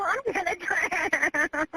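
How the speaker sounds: slow, sobbing words of despair; despairing sob. Real, not acted. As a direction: let the words drag out in real dread. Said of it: "I'm just scared".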